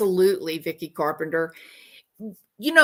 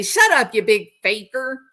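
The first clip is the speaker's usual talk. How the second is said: loud, raised-pitch rebuke; mock scolding; 3 semitones higher, 6 dB louder than usual. Viewer heckling the man in the video, mock scolding. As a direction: pretend to tell off a faker.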